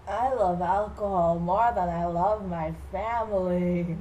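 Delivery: slow, lightly voiced drunk dad; drunkard father. Father declares his love of alcohol, mock-drunk. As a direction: drag the words out like a mock drunk. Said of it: "who loves alcohol more than he loves".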